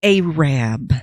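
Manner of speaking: "Arab" said loudly as AY-rab; local pronunciation. Retold or imitated. Bystander correcting gas station clerk, local pronunciation of "Arab". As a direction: stretch "Arab" into two stressed syllables, AY-RAB. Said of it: "kind of tapped him and went".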